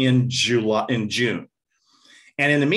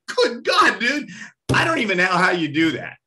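awed; 5 semitones higher than usual. Retold or imitated. Awed reaction to conductor's memory.

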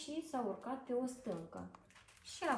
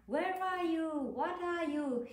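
frightened cry; 7 semitones higher than usual. A narrator's reading. Owl crying out at the bumps, mildly scared and high. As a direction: call out to the unseen bumps, lightly scared. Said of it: "he cried".

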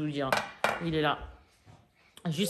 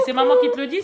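higher and louder, a mother's final word; stern raised voice; 9 semitones higher, 8 dB louder, much faster than usual. Real, not acted. Mother insisting to her hyper daughter, stern and loud. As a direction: put your foot down, raising the voice.

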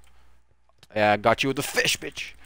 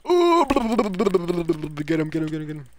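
high, loud squeal of glee; excited squeal; 6 semitones higher, 7 dB louder than usual. Real, not acted. Streamer urging teammates to get him, high squeal. Egging on a chase.

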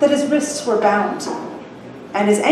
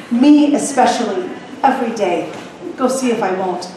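gruff pirate. Acted. Pirate captor voiced in story.

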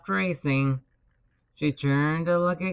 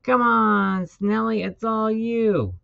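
high, loud, drawn-out urging; coach's stretched rooting shout; loud cheering; 5 semitones higher, 5 dB louder than usual. A narrator's reading. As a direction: holler your racer on. Coach cheers his snail loudly.

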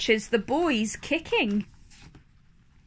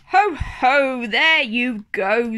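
jolly Daddy Pig; 4 dB louder, slower than usual. Acted. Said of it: "snorts Daddy Pig".

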